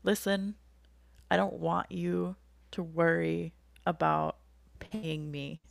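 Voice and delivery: lightly imitated calm, reassuring therapist. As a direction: gently reassure her, unhurried and easy. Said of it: "in a very calm voice".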